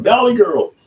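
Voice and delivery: put-on very high, loud Valley Girl squeal; sudden high-pitched Valley Girl outburst. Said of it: "I need to be a Valley Girl".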